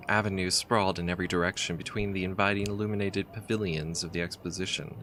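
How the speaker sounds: reading the game's story text aloud, evenly; story narration. A narrator's reading. Player reading the adventure's story, steady narrator voice. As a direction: tell it like a travel tale.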